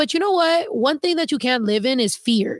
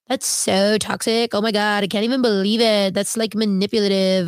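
mock outrage; 3 semitones lower than usual. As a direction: stretch it out like an appalled prude, lightly mocking. Mocking imagined scandalized viewers.

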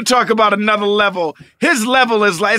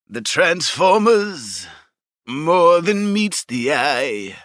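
slow crooning style of a singer; impression of a singer; 4 semitones lower, much slower than usual. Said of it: "I'm gonna give them my Neil Diamond".

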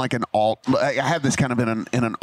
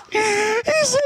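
much higher, words squeezed out through laughter; laughing through words; 13 semitones higher than usual. Real, not acted. Teller laughing hard while retelling the snakes moment. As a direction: keep retelling while you can't stop laughing.

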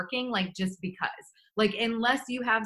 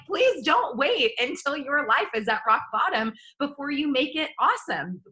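aggressive urging; 5 semitones higher than usual. Real, not acted. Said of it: "I'm a very aggressive speaker".

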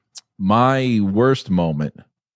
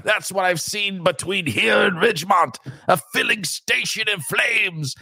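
Loomis impression; 8 semitones higher than usual. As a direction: boom it out like a doomsaying doctor. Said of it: "first movie I saw".

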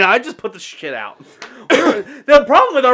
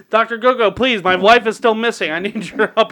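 pleading; 4 semitones higher than usual. Retold or imitated. Drunken plea acted out.

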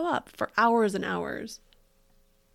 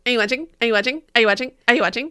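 put-on loud, high child begging Mommy to watch; whiny little child; 5 semitones higher, 9 dB louder, much faster than usual. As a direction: call out like a needy kid craving attention. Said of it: "Like little children that are like".

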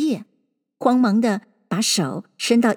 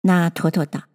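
usual speaking voice

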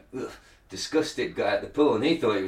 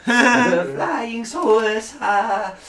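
put-on Japanese accent; 8 semitones higher, 3 dB louder, much slower than usual. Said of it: "I'm gonna do my".

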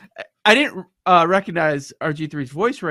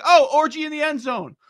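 higher, louder retold commentary; excited commentator call; 9 semitones higher, 5 dB louder than usual. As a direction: imitate a commentator blurting out the play.

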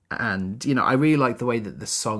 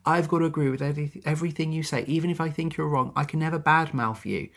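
higher-pitched, mock-exasperated queen's complaint; retold outburst; 5 semitones higher than usual. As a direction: vent the queen's grievances, half acted. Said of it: "she has this really nice outburst".

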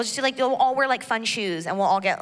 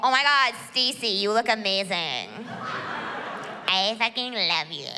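put-on drunk gushing.

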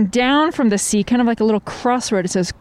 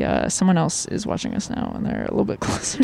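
hushed whisper; leaning in to whisper; 6 semitones lower, 6 dB quieter than usual. Real, not acted. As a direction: lean in and whisper it. Someone watching, hushed aside.

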